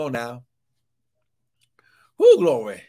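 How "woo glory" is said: whispered woo. Real, not acted. Preacher's exclamation mid-sermon.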